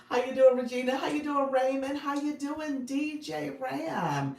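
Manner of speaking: host calling out to viewers by name; excited greetings. Real, not acted. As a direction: greet each friend with big energy.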